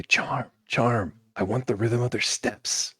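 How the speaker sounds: a hint of a small, high voice; little voice. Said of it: "you again hear the little voice say".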